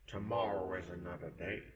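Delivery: a soft, breathless death threat; hushed menace; whispered threat. Acted. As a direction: whisper the final verdict. Final threat to victim.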